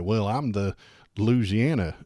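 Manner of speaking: attempted Louisiana accent; lightly put-on Louisiana accent. Streamer mimicking the governor weaseling out, tentative Louisiana accent. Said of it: "can I do a Louisiana accent".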